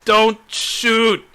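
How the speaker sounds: high, loud cry of alarm; pleading shout. Acted. Threatened character begs the crossbow wielder, high shout. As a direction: shout it as a sudden plea.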